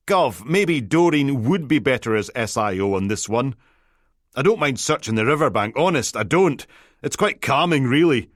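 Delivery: a nervous DI begging his boss to hand the case over; pleading junior detective. Acted. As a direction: beg to be let off the hook.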